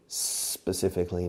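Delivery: "specifically" opening on a long pure S; initial S sound. Shown as a demonstration. Teacher showing Spanish learners the word's first letter, initial S sound. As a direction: start "specifically" straight on S, with no E before it. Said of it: "empieza por ese".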